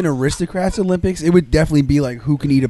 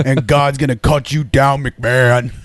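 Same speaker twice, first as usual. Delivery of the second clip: a singer's voice; 4 dB louder, slower than usual. Pretend. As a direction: croon it slow like the singer. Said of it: "Try Johnny Cash now".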